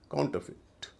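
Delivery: "काउंटरफिट" ending in fit; short i. Shown as a demonstration. Teacher modelling counterfeit, short i ending. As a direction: keep the last vowel of "काउंटरफिट" short. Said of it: "उच्चारण छोटी ई होगा".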